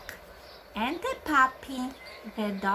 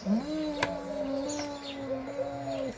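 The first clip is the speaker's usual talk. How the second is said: cow moo; 3 semitones higher, 5 dB quieter, slower than usual. Retold or imitated. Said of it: "somebody says".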